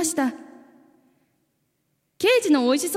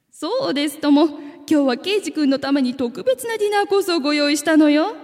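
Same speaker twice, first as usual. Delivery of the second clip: cooing coaxing voice; 3 semitones higher than usual. Acted. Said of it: "猫なで声で言いました".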